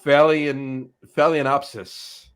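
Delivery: Phalaenopsis sounded out slowly as fay-lee-en-OP-sis; careful, drawn-out stab at Phalaenopsis; tentative pronunciation. Shown as a demonstration. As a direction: attempt Phalaenopsis slowly, breaking off after the first part. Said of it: "not quite sure how you pronounce it".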